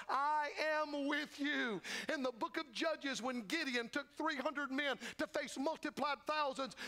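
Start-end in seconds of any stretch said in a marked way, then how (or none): 0.1-1.8 God's voice. Acted. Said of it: "He said".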